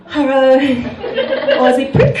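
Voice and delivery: sweetly courteous delivery of an insult; faux-harmonious hello; mock-polite greeting. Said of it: "To come out as a polite, harmonious greeting".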